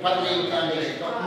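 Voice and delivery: quick mock valley girl; speedy valley girl impression; valley girl accent. Shown as a demonstration. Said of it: "you can't talk like a valley girl".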